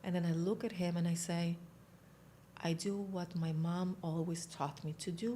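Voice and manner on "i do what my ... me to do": straight-faced, understated delivery; deadpan serious. Retold or imitated. Recruit tells the psychiatrist her plan, deadpan serious. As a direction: keep it earnest, hold back the laugh. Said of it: "I need to be serious".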